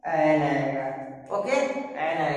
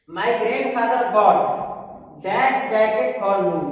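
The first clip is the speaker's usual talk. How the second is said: slow exercise reading; much slower than usual. Shown as a demonstration. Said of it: "Fill in the blanks".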